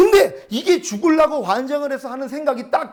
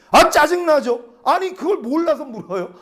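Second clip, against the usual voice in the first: higher-pitched, acted-out irritation; annoyed retort; 5 semitones higher than usual. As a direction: snap back at God in mock annoyance. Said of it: "나 지금 짜증나가지고".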